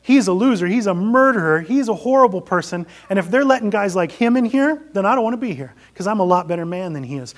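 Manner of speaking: loud, high, boastful self-righteous ghost; proud ghost. Acted. Preacher voicing a ghost that refuses heaven, loud and boastful. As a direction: puff up and brag about your goodness. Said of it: "Some ghosts say".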